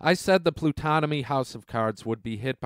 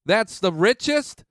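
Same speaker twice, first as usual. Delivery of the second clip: incredulous rise on richest; scoffing; 6 semitones higher than usual. Real, not acted. Vlogger scoffs at Bernie's claim with a disbelieving rise.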